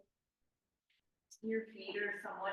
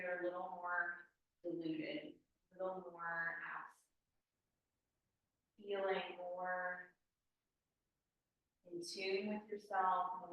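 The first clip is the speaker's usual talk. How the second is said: guided meditation. Acted. Guides slow relaxation.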